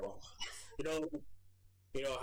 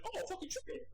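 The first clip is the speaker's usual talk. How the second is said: much higher, mock-snooty cat sneer; cat's disdainful voice; 5 dB quieter than usual. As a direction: voice the picky cat scoffing at a treat. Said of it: "She's like".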